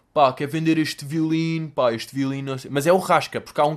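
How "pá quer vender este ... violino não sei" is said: mock pawnshop customer. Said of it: "as pessoas vão lá tipo".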